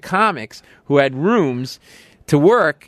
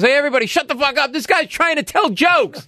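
mock drunk yell. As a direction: bellow at the whole bar. Drunk silencing the bar.

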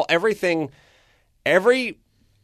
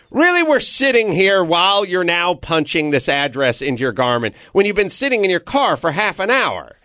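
mock outrage at a dawdling chauffeur; exasperated disbelief; 4 semitones higher than usual. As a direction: needle the driver like you can't believe him. Complaining to the slow driver.

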